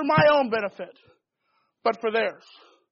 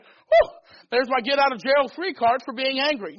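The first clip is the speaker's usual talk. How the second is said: mock relieved whew. Congregation member glad of an excuse, mock-relieved whew. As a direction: play the listener who just found his excuse. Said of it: "And they say".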